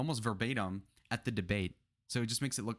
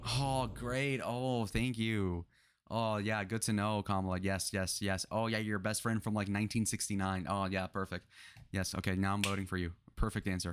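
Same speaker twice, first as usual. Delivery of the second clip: sarcasm. Acted. Sarcastic fake praise.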